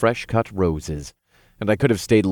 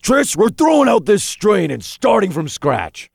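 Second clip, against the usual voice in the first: disgusted; 13 semitones higher, 6 dB louder than usual. A narrator's reading. Imp disgusted, insisting.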